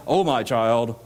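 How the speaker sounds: dryly ironic address. Shown as a demonstration. Abraham as good as dismissing the rich man, ironic. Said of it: "that almost sounds ironic".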